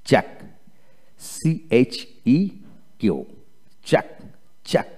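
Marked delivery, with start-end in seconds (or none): 3.9-4.9 চেক ending on a plain K, no U sound; silent U. Shown as a demonstration. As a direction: model চেক as one short syllable closing on K. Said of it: "ইউ উচ্চারিত হবে না।". (চেক, শেষে ইউ অনুচ্চারিত)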